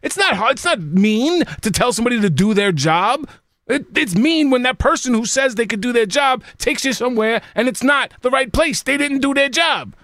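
riled-up complaint; heated rant. Real, not acted. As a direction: vent about useless drivers. Ranting about cab drivers.

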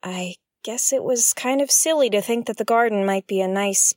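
ordinary talk

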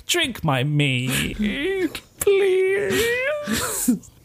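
slow, then a high wailing please; desperate pleading. Retold or imitated. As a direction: beg her to drink, breaking high. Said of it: "He's like".

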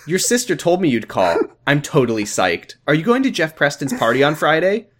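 mock an eager teen on the phone; hammed-up chirpy girl. Sister's friend calls Josh, gushing and bubbly. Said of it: "here's the conversation".

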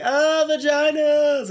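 high, slow drawn-out groan of distaste; mock disgust. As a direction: groan it out like it's gross. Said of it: "gay friends who are like".

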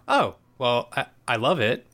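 a light Matthew Perry, awkward and sarcastic; hint of a Matthew Perry sarcastic beat; Matthew Perry delivery. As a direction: toss it off like a lightly done Chandler. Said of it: "In a very Matthew Perry way".

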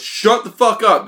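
high, slow retold outburst; mock angry retort. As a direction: stretch it out in mock irritation. Retold snapping at bartender.

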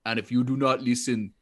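low, grave barbarian prayer; Conan prayer voice. Retold or imitated. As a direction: growl it like a grim warrior. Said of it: "most backhanded prayer I have ever heard".

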